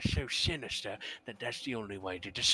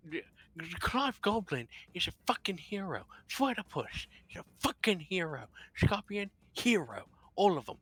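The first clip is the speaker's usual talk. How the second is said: indignant shouting; 7 semitones higher than usual. Acted. Insisting loudly they are heroes.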